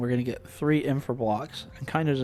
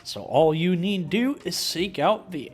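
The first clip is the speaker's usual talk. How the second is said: character voice; 5 semitones higher, 6 dB louder than usual. Acted. Voiced game character speaking.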